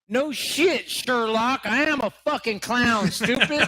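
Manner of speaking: mock-indignant retort; sarcastic comeback, mildly hammed up; Christopher Marlowe. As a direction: imitate an arrested man sassing the cop. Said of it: "To which Marlowe responded".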